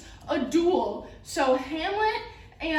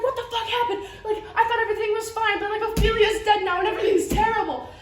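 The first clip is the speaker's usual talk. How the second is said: mock distress, higher-pitched and rushed; upset Hamlet; 4 semitones higher, faster than usual. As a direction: blurt it out in comic dismay. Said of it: "causes Hamlet to get really upset".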